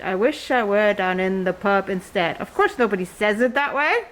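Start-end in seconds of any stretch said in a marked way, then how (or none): 0.0-2.4 "I wish I were down in the pub instead" in the plain English beat; natural iambic rhythm. Shown as a demonstration. Teacher modelling the natural rhythm of English. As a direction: let the iambs fall naturally. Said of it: "The natural rhythm of the English language".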